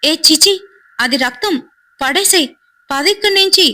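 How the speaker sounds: high-pitched shock and revulsion. Acted. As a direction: urge them away in alarm, pitch climbing sharply. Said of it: "Sanjay shock అయిపోయి".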